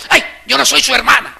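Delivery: loud, high huffy retort; sulky angry sister. Retold or imitated. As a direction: snap it like an annoyed sister. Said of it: "está brava con Ana y le dice". (hermana enojada, aguda y fuerte)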